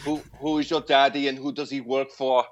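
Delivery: hammed-up Austrian Arnold interrogation; Arnold impression. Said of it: "That's pretty good".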